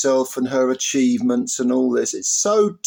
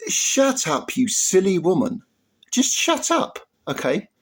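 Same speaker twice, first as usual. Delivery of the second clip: high-pitched exasperated snap; fed-up telling her to shut up; exasperated scolding; 5 semitones higher than usual. Real, not acted. Scolding the boxer directly.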